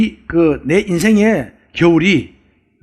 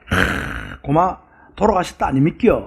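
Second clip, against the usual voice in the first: Gyeongsang dialect; 3 dB quieter, slower than usual. Retold or imitated. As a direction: lightly imitate a Gyeongsang speaker. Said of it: "경상도 사람들은". (가볍게 흉내 낸 경상도 사투리)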